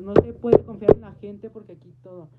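loud public shout. Retold or imitated. Daughter yelling a warning for everyone, loud. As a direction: yell it for all to hear. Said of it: "le grité a los cuatro vientos".

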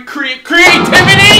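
loud, high, drawn-out eureka; triumphant shout. Acted. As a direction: blurt it out like you solved it.

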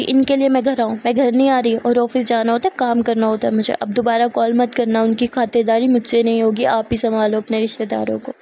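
loud angry phone outburst; furious refusal on the phone call. Acted. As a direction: snap at her mother down the line. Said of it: "इतने गुस्से में बोल के".

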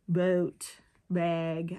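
"Boat" and "bag" with Minnesotan vowels; Minnesotan pronunciation. Shown as a demonstration. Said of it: "other words that we say that's weird".

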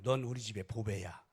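tender words. Shown as a demonstration. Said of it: "다시 한번 해요".

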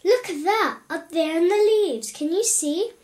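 high, loud excited call; children yelling. A narrator's reading. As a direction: call out urgently like children spotting trouble. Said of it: "they yelled".

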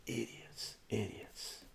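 quiet scornful aside after the story; muttered insult. Real, not acted. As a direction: mutter it under your breath. Muttered repeat after rant.

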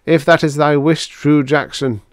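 high, even-toned robot reply; mildly submissive formal pronouncement. A narrator's reading. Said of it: "said seventy-six submissively".

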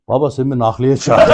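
lightly imitated Ankara accent, low; Ankara şivesi. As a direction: retell it in a casual Ankara accent. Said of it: "şimdi ben Ankara şivesiyle dedim". (hafif Ankara şivesi taklidi)

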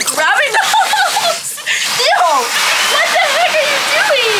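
giggly disbelieving squeal; laughing shriek. Real, not acted. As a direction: crack up as the monkey steals the hose. Monkey grabs the hose.

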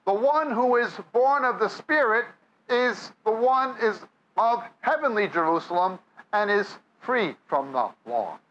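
ordinary delivery

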